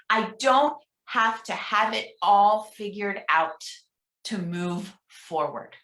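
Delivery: slow, deliberate leader's reading; slow affirmation reading. Shown as a demonstration. Minister reading an affirmation to the congregation, slow. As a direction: lean on each phrase, then ease off. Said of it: "I'm gonna read each one".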